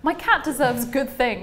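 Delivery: slow matter-of-fact. Retold or imitated. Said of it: "to being like".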